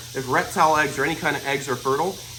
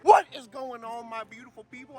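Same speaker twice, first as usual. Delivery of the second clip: excited greeting; 7 semitones higher than usual. Real, not acted. Vlog greeting shout.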